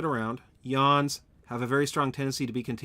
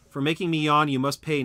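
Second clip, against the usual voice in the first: mock villain threat; 2 semitones higher, 5 dB louder than usual.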